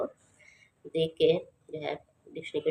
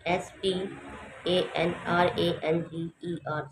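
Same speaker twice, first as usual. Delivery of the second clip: spelling out; slower than usual. Shown as a demonstration. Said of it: "C U double N I N G".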